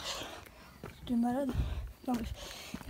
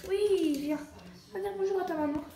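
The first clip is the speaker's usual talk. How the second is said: higher, louder cooing to the animal; pet talk; 5 semitones higher, 3 dB louder than usual. Real, not acted. To her pet, coaxing it to greet mum: high cooing pet talk. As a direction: praise and coax the pet along.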